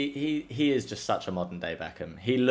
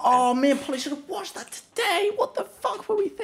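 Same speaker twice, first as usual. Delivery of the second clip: exasperated self-reproach. Real, not acted. Realising she and Polly missed the episode, exasperated. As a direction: kick yourself for missing it. Forgot to watch new episode.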